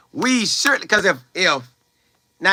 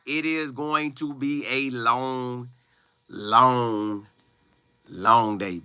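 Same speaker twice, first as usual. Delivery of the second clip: slow, softer and lower, stretching each long; drawn-out warning; 5 semitones lower, 6 dB quieter, much slower than usual. Real, not acted. Player warns teammates it will be a long day, slow and low. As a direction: let it sink, slow and heavy. Warns what happens without work.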